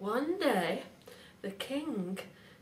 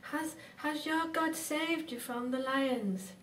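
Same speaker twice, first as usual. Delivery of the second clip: mild, higher-pitched storybook shout; anxious shout; 4 semitones higher than usual. Acted. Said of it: "and he shouted".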